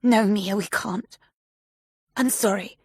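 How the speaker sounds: put-on a frightened old woman begging her granddaughter; voiced Mia, pleading. A narrator's reading. Old woman pleading on the phone.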